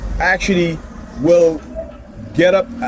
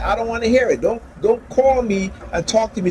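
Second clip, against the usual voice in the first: higher, sharp retold telling-off; retold exasperated rebuke; 7 semitones higher than usual. Telling his ex to stop calling, exasperated. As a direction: shut her down, fed up.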